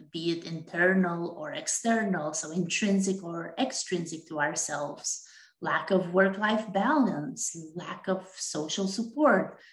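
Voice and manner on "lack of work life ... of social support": running out of breath; breathless at the end of a long list. Real, not acted. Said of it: "You can tell I'm running out of breath here".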